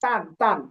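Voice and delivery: তান twice, with a plain n ending as in তানপুরা; pronunciation demo. Shown as a demonstration. Teacher correcting the student's ending, pronunciation demo of তান with final n. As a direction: repeat তান as a correction, closing on n not ng. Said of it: "তানপুরার যে তানটা আছে না".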